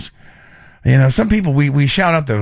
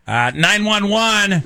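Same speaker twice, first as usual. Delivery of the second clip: higher, slow dispatcher voice; mock 911 operator; 6 semitones higher, slower than usual. Host plays the operator in a mock 911 call. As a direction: answer like a bored dispatcher.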